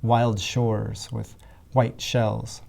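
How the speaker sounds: "wild shores" and "white shells" slowly, evenly weighted; metrical demonstration. Shown as a demonstration. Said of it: "The similar meter of".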